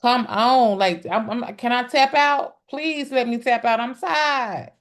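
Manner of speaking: whiny plea to tap out; begging to be let off; pleading to stop. Retold or imitated. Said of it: "faces or gestures that say".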